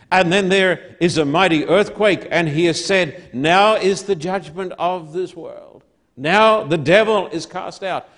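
firm pulpit delivery; preaching. Real, not acted. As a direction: preach it with rising force. Preaches with rising force.

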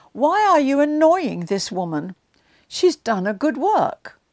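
protective rebuke. Retold or imitated. Jesus defends Mary from disciples.

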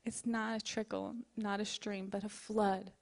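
pastor speaking provision over her congregation in prayer. Acted. Leads the closing prayer.

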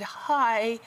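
lightly voiced weak old man; high, thin grateful caller. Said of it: "this weak voice".

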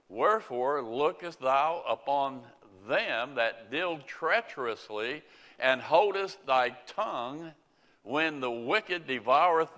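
solemn King James reading voice; scripture reading. Acted. Preacher reading Habakkuk to the congregation, solemnly. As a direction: read the prophet's complaint to the Lord with weight.

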